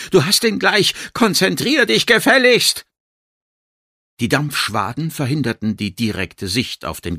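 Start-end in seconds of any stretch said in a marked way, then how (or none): 0.1-2.8 high, forceful narrated yelling; Zurückschreien. A narrator's reading. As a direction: yell an impatient order to focus. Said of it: "schrie sie zurück". (hoch und energisch geschrien)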